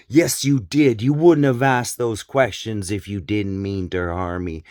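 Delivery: a hint of the defiant mother; mild mock retort; acting the mother. Mother rejecting her son's apology, mild mock insistence. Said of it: "that little skit".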